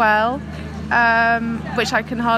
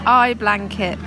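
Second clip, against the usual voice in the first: put-on local Devon accent, slow; 3 semitones lower, slower than usual. Devon local accent for a friend. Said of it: "Someone make a song out of that".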